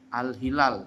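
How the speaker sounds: "al-hilal" with a clear h sound; pronounced al-hilal. Shown as a demonstration. Teacher modelling "al-hilal" for students. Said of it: "Seperti umpama".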